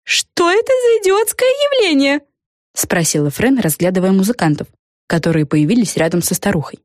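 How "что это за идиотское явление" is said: high, slow fairy sneer; scoffing fairy. A narrator's reading. Fran scoffing at the witch's musicians. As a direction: scoff at the silly show.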